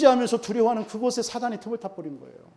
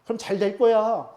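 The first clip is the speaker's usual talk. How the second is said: sarcastic goading; 3 semitones higher, slower than usual. Acted. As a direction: egg them on sarcastically, as the devil would. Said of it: "그걸 가지고 비아냥거리는 거예요".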